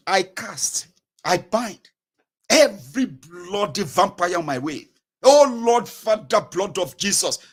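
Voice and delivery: emphatic mock binding prayer; fervent prayer. Traveler praying against road dangers, fervent and emphatic. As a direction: cast and bind with forceful bursts. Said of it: "then you begin to pray".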